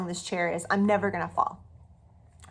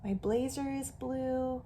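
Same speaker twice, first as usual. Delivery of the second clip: softly looking around the room; quiet searching; 4 semitones higher, 11 dB quieter than usual. Shown as a demonstration. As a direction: murmur while searching. Soft searching demo.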